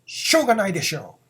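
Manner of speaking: fast, clipped angry しょうがないでしょ. Shown as a demonstration. Teacher showing the angry しょうがないでしょ. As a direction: bite out しょうがないでしょ in irritation. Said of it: "With an angry voice".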